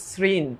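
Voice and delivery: সৃণ as "srin", starting with s; syllable-by-syllable pronunciation. Shown as a demonstration. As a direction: sound out সৃণ on its own. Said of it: "তারপর বলছো".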